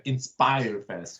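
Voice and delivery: slow Inspire Fest with a French accent. Shown as a demonstration. Host demonstrates the French way to say it, in a slow mock French accent. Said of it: "You have to say it with a French, French accent".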